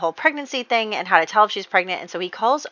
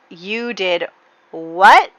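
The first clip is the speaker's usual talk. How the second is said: mock horror rising high and loud on what; a retold dad's hammed-up disbelief; father hearing of the pregnancy, in mock horror; horrified father; 4 semitones higher, 6 dB louder, slower than usual. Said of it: "like, horrified".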